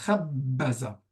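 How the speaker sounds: doubled b held in "khabbaza"; b redoublé. Shown as a demonstration. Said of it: "ça sert à redoubler les consonnes". (« khabbaza » avec le b bien redoublé)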